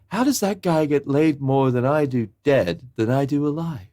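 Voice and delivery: indignant Larry. Retold or imitated. Acting out incredulous Larry.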